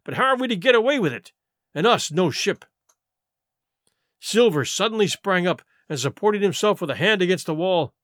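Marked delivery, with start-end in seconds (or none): 0.0-2.6 George. Acted. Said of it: "said George".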